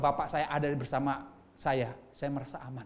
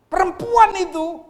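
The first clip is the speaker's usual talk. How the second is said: high, loud, slow accusation; Adam accusing his wife, high and loud; Adam blaming; 14 semitones higher, 14 dB louder, slower than usual. Acted. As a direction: drag it out, pointing the finger. Adam blames the woman.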